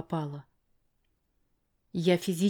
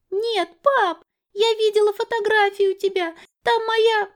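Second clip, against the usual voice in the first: put-on high, louder child's protest; a small girl arguing back; protesting little girl; 7 dB louder than usual. Girl pleading with her father, high and loud.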